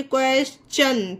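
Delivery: क्वेश्चन with T as "ch", "kwes-chun"; ch sound for T. Shown as a demonstration. Teacher showing the rule, क्वेश्चन with "ch". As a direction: say क्वेश्चन ending in a clear "chun". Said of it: "टी को चा पढ़ा गया".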